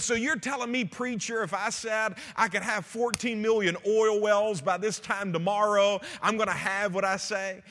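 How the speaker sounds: skeptical heckler. Retold or imitated.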